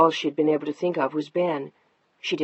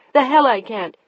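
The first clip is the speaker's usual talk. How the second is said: higher, louder retort; defiant shout; 7 semitones higher, 8 dB louder than usual. Acted. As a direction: snap back in fury. Wife shouts back defiantly.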